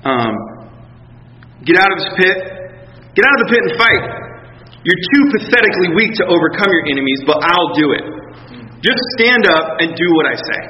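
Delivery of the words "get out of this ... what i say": harsh command. Retold or imitated. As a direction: bark at him to get up and fight. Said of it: "God could have said".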